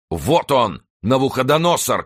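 high, loud cry pointing someone out; soldier's shout. A narrator's reading. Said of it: "крикнул один из латников Кромвеля". (громкий высокий крик)

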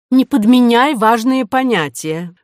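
high, loud indignant objection. A narrator's reading. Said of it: "возмутилась Ариадна".

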